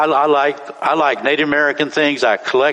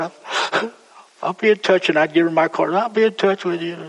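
raised pitch, a light hint of the woman; higher voice for the woman; 5 semitones higher than usual. Telling a man at the airport she'll keep in touch, lightly higher. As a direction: lift the voice to play her, lightly.

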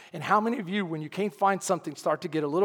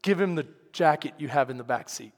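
calm instruction; 4 semitones lower than usual. Retold or imitated. God's calm first instruction, retold.

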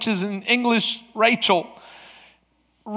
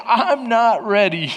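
slow, drawn out, at normal volume; slow emphatic repeat; slower than usual. Retold or imitated. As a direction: stretch out each word deliberately. Repeats own tearful line, slower.

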